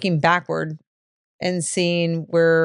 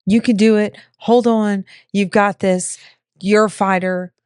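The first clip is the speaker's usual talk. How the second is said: cheering him on; 3 semitones higher, 4 dB louder than usual. Retold or imitated. Wife cheering her husband through a heart attack, loud encouragement. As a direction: urge a dying man to hold on. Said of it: "cheering him on".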